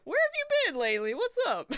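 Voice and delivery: high, loud, rushed mock delight; hammed-up excited greeting. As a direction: gush at a long-lost friend, overdoing it. Gushing greeting to game character.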